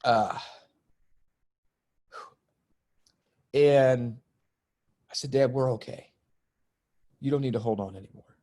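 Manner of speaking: fighting to stay composed while speaking; getting emotional. Real, not acted. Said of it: "ooh, I'm getting emotional right now".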